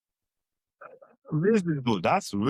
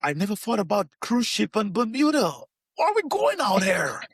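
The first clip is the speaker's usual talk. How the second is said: retold alarm; 8 semitones higher than usual. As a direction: play up the panic half-laughing. Retold alarm on cruise ship.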